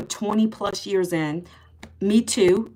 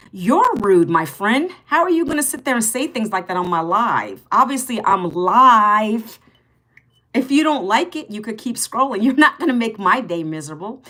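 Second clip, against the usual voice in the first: sarcastic scolding; 3 dB louder than usual. Real, not acted. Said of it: "I'm being a little sarcastic".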